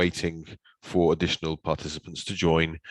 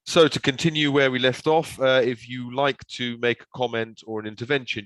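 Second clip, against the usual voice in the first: raised, projecting voice; speaking louder; 4 semitones higher, 4 dB louder than usual. Real, not acted. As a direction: push the voice out clearly. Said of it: "I will try and speak louder and more clearly".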